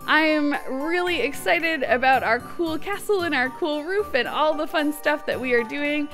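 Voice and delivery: usual speaking voice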